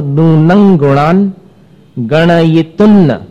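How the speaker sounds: नूनं with ng as in अंग, गणयितुन्न with doubled n; teacher demo of nasal sounds; like ang. Shown as a demonstration. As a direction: slowly show नूनं ending in ng. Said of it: "अंग में जैसा उच्चारण है".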